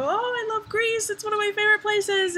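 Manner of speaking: high, delighted retold reply; gushing enthusiasm. Traveler to a Greek woman, gushing enthusiastically. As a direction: gush about it, high and stretched at first.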